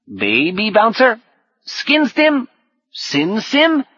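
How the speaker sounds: high, slow questioning lizard voice; lizard's kid speak. Acted. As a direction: swoop upward as a puzzled little reptile. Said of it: "so sunk in kid speak".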